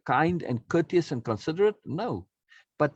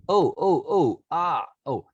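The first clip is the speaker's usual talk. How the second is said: mock dawning surprise; 3 semitones higher, 4 dB louder, slower than usual. Teacher acts out the listener finally getting it, with hammed-up surprise. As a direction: play the penny dropping.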